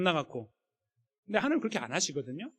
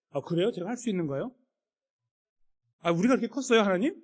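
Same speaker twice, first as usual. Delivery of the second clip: feigned innocence; 3 semitones higher than usual. Acted. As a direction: act as if it were news to you. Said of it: "아닌 것처럼".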